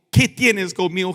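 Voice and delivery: loud, high scripture proclamation; preacher calling out the verse; crying out. A narrator's reading. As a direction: read the verse as a ringing cry. Preacher reads demoniac's loud cry.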